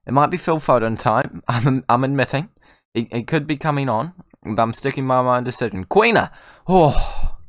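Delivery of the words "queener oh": high, loud burst at a near miss; excited cry. Real, not acted. Gamer reacting to his shot at goal, excited cry.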